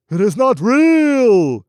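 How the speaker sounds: high, loud, slow desperate shout; a slow, desperate loud cry; cried out. Acted. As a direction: fling the denial into the dark. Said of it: "he cried out".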